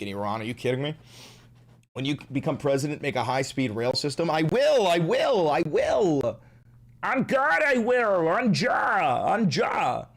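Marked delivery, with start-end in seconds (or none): 4.3-10.1 eager promise. Real, not acted. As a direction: swear it over and over, excited. Promising chat eagerly, repeated.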